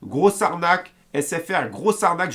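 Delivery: a touch of mock anger, chanted slogan; angry mode. Vlogger denouncing SFR to viewers, in a mild put-on angry mode. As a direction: spit out grosse arnaque like a protest chant, lightly. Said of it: "en mode énervé".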